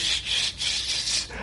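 long unvoiced shh of cold air blowing; air conditioner hiss. Imitating the shul's air conditioner with a hissing shh. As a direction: hiss like an AC unit kicking on.

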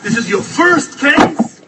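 stunned that it is his first case; disbelief. Retold or imitated. Stunned at the young lawyer.

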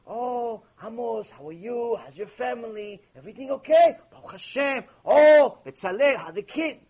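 gushing small talk, lightly acted; mock chummy greeting. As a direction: play an over-friendly rabbi greeting congregants.

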